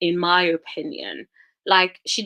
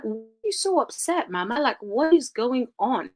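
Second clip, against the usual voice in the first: incredulous question; 5 semitones higher than usual. Retold or imitated. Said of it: "I'm just like".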